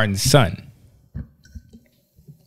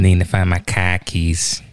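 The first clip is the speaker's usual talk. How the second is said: mock Boston accent; slower than usual. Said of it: "Don't make a mockery of our accent".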